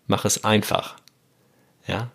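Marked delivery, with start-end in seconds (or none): 0.1-1.0 accent the last word "einfach"; stress on einfach. Shown as a demonstration. Podcaster quoting a nudge to self, "einfach" stressed. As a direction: let "einfach" carry the phrase, then fall. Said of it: "dritte Betonung ist auf dem Einfach".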